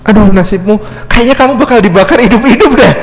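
gloating, laughing through the words; the devil laughing at Abid's fate; mocking laugh. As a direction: sneer at his fate with a laugh. Devil gloating over Abid.

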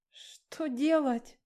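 slow, high, frightened stammer; panicked, stumbling over the words; terrified halting question; stammering in fear. A narrator's reading. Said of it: "заикаясь".

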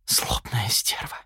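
breathless, voiceless whisper of an insult; a slow whispered curse. Acted. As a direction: hiss the words under your breath. Muttered insult to the double.

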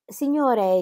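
a stern, reproving "Signore"; severe. A narrator's reading. Herr Dremmel sternly addressing the duchess's companion. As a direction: address him with mild severity. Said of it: "con un accento di severità".

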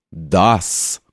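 low, booming cry; thundering shout. A narrator's reading. Drunk clerk thunders at the general, booming. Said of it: "закричал он громовым голосом".

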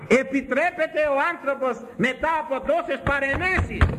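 high, insistent rhetorical challenge; indignant high-pitched preacher; impassioned preaching. Acted. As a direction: throw the question at the congregation, pitched high. Counter-question hurled at the congregation.

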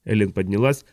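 ordinary delivery, nothing marked

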